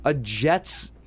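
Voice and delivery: playful hurt complaint; mock whine. Mock whining at co-host.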